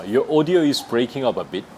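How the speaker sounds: slow again, audio stressed; careful teacher repeat; slow demo. Shown as a demonstration. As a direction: model the phrase clearly. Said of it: "이렇게 하면 돼요".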